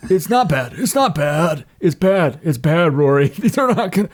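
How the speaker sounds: fail to hide how bad it is; flustered reassurance. Tina flustered, telling Rory his hand is bad. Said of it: "Tina in character".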